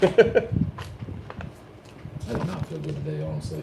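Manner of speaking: talking around a wad of gum; chewing gum. Real, not acted. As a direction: chew gum while you speak. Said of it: "You have gum in your mouth".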